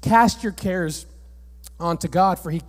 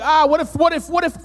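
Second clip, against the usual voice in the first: mock panic; 6 semitones higher than usual. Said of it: "things that you're like".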